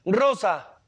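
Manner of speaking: put-on curious child. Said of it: "la mamá le diría al niño".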